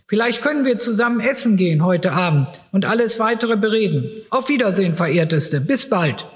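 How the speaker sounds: a fussy lawyer sending her home; lightly voiced lawyer. Reads the lawyer's soothing talk. (leicht gespielter Anwalt, höher)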